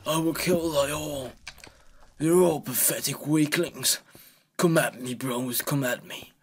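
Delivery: hammy battle cry at the beasts; mock warrior taunt.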